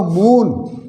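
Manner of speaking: मून with a long oo; मून stretched out as a model pronunciation; long vowel. Shown as a demonstration. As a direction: hold the oo in मून. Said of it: "इसको क्या बोलेंगे?".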